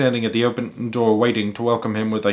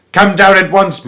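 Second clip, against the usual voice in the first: excited call; 8 semitones higher, 6 dB louder than usual. A narrator's reading. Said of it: "Missus Silver answered".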